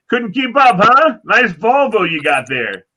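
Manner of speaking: high, loud sneer slowing on the last line; mocking teenager. Teenager mocking the cop outside the store, high sneering jeer. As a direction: rub it in, jeering.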